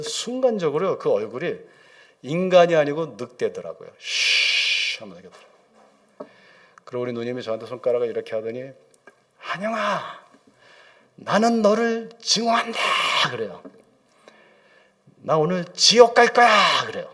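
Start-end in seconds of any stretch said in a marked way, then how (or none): 4.0-5.0 long sharp "shhh"; drawn-out mimicked hissing; imitated hiss. Imitating the possessed sister's noise. 9.4-12.8 high, drawn-out cursing wail; slow, high-pitched imitation of a possessed woman; hateful possessed voice. Acts sister turned wolf, cursing him. 15.2-16.8 slow, high, loud mimicked wail; drawn-out loud imitation of a possessed woman. Acts possessed sister cursing.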